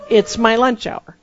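exasperated retold outburst, played for laughs; mock protest. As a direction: protest it loudly, spelling out each word slowly. Same thought repeated as comic protest.

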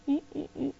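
tiny, high, soft "eh" noises; timid high whimpers, acted out for comedy; tentative squeaks. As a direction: squeak out wary little first-step noises. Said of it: "a little bit like".

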